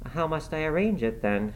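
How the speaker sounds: high pleading question, near helpless; a touch of despair, voice lifted high. A narrator's reading. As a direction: ask it as if out of ideas. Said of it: "she asked despairingly".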